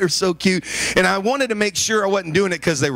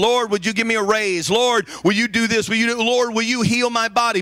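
higher-pitched imitation of begging God; mock pleading prayer; 4 semitones higher than usual. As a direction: plead like someone praying for favours. Voices people begging God in prayer.

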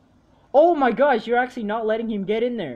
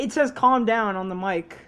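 emphatic report; 4 dB louder than usual. Real, not acted. Reads out what game shows.

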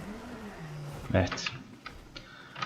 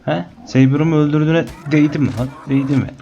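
taunting; 5 semitones higher than usual. Real, not acted. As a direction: rub it in, mocking the creature. Taunting the creature that killed his Saber.

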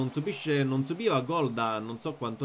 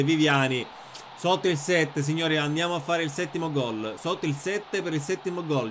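excited goal call. Acted.

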